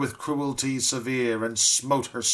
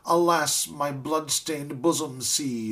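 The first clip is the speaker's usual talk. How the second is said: drooping sufferer's cry; 4 semitones higher than usual. Acted. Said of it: "the drooping sufferer cried".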